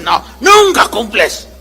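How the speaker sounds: hammed-up husband shouting back; husband's mock yell denying the charge. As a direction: throw it back at her with a shout. Husband voiced objecting.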